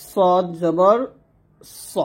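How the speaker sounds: সদ জবর স slowly, স full and rounded; pause, then give স as a heavy "so"; heavy "so" sound. Shown as a demonstration. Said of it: "এরকম হবে, স মোটা হবে অবশ্যই". (স মোটা করে, ভরাট উচ্চারণ)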